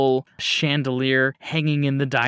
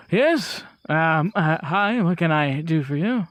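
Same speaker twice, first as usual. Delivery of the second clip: hesitant butler-like host; 3 semitones higher than usual. Acted. GM voices Thomas Grand answering door.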